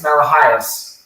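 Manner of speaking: Malachias said slowly, as in Greek; Greek pronunciation. Shown as a demonstration. Actor shows the host his last name, Malachias pronounced slowly in Greek. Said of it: "how you say it in Greek".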